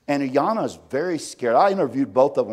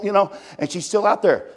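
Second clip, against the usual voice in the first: ordinary delivery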